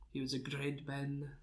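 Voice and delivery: lightly voiced presidential impression; Trump. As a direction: do a half-hearted politician's eulogy. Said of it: "That's my Trump impression".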